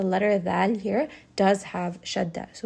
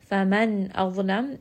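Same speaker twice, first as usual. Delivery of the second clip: chanted Quranic recitation; much faster than usual. Acted. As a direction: recite the ayah in tajwid style.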